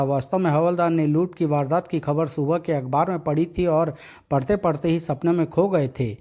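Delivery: ordinary talk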